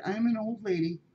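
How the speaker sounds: put-on old LADY, lady leaned on; lightly voiced old cat, proud of lady; stress on lady. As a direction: lean into the word lady. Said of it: "Emphasis on lady".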